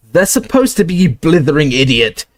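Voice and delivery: high exasperated rebuke; angry shout. Acted. McGonagall scolds Filch, high and cross. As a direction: snap at the fool. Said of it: "shouted McGonagall".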